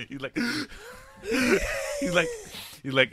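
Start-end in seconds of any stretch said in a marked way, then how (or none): 0.4-2.0 high, shuddering held-back sob; mock tearful heavy breathing; imitated hard breathing. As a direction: imitate a kid gulping back tears. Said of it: "he's breathing hard".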